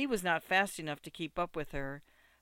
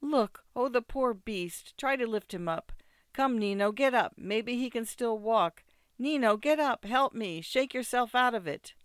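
higher, louder, insistent urging; urgent pleading; 6 semitones higher, 5 dB louder than usual. A narrator's reading. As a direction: plead with him urgently, pitch raised. Ida urging Nino to help.

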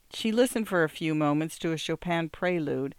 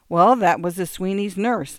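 heated, louder insistence; hotly; 3 semitones higher, 6 dB louder than usual. Acted. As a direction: insist with heat. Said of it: "Irene said hotly".

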